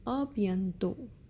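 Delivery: "A bientôt" said slowly and softly; slow teacher model of "A bientôt"; slow model phrase. Shown as a demonstration. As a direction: ease out "A bientôt" for learners. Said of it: "So you would say".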